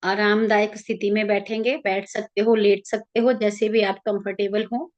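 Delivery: calm, even meditation guide with long pauses; guided meditation. Real, not acted. Leading listeners into an Ekadashi meditation for their ancestors, calm guided-meditation voice.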